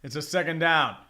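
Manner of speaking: quick football call stretching the key words; live play-by-play. Real, not acted. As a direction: track the runner as it happens. Calls a live running play.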